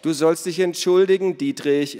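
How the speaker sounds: high, loud telling-off; bossy scolding. A narrator's reading. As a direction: order it like a bickering companion. Acted bossy order in squabble.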